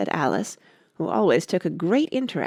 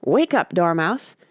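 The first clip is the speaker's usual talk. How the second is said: crying out; 5 dB louder than usual. Acted. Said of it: "they both cried".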